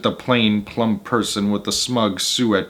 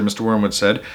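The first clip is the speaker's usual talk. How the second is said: usual speaking voice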